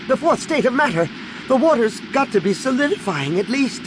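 high-pitched, excited youngster's exclamation; excited squeal. A narrator's reading. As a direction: keep it squealing high as the idea tumbles out. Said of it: "Anakin squealed".

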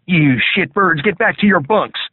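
high, loud barked order; gruff drill sergeant. A narrator's reading.

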